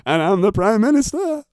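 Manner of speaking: loud, hammed-up Boris voice; Boris Johnson impression. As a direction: ham up the Prime Minister. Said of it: "that's my Boris Johnson".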